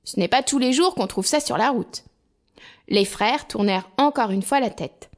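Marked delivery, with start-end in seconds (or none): 0.0-2.0 holà lents, forts et aigus; hèle-les de loin, tout fier; appel joyeux. Acted. Hans hèle ses frères. (Hans appelle ses frères, fier et fort)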